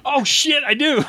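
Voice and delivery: sudden high alarmed yelp; surprised. Acted. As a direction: blurt it out in shock. Realizes he must keep dog.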